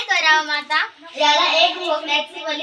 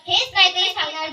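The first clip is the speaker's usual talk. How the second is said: ordinary talk, nothing marked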